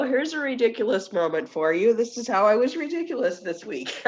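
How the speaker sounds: jokey show-and-tell voice; playful announcing. Real, not acted. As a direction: present it like a funny exhibit. Joking presentation of own story.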